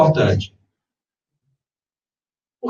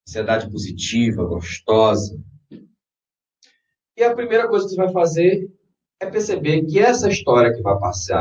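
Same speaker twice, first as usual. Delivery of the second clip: guided meditation. Acted. Leads a guided visualization.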